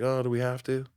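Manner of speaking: lightly voiced reluctant kid; a hint of a child's grudging protest; whiny child brain. Own brain balking at five hundred sit-ups, mildly whiny child. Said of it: "I hear that stupid voice every".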